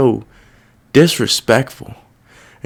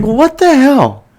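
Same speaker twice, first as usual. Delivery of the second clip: incredulous inner voice; 12 semitones higher, slower than usual. Retold or imitated. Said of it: "I was like".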